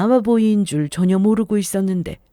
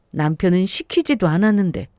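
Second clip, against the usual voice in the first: usual speaking voice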